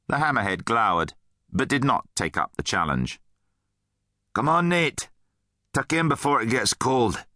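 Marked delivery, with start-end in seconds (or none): 4.3-7.2 lightly voiced brisk friend, pitched up; friend rallying. A narrator's reading. Rudd turns back to Nate at breakfast, encouraging. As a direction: coax a friend to eat.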